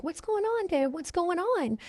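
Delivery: a teen imitating her own panic; retold panicked plea. A frightened sixteen-year-old asking her dad, high and hushed. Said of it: "and I'm panicking".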